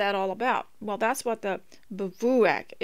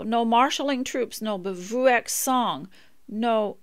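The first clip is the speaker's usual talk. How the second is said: measured, swelling poetic reading, louder on the big lines; poem recitation; 4 dB louder, slower than usual. Acted. Reading an old poem to her listeners, in a solemn recital.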